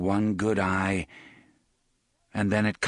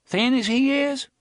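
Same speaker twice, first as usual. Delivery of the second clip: put-on scoffing boy; 5 dB louder than usual. Bully scoffs at the bet.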